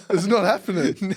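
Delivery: helpless amusement in the voice; laughing. Real, not acted. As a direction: laugh while dismissing the idea. Both laughing at absurd idea.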